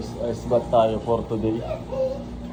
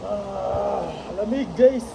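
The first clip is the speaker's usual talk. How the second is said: high yelp from the cold; shrieking in ice water; cold shock; 9 semitones higher, much slower than usual. Real, not acted. Dad in ice bath.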